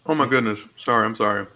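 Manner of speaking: talking while chewing; mouth full. Real, not acted. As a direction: speak around a bite of food. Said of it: "I'm chewing".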